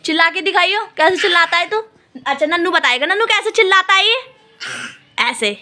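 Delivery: put-on high, loud sing-song coaxing of a baby; mother calling her little son to come in baby talk; cooing baby talk. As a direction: lisp it like talking to a toddler. Urging the baby to shout.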